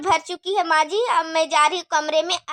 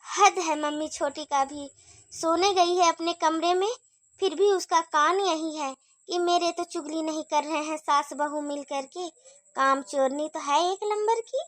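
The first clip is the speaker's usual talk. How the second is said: hushed gossip; 4 semitones lower, 6 dB quieter than usual. Acted. Gossiping so Chhoti won't hear.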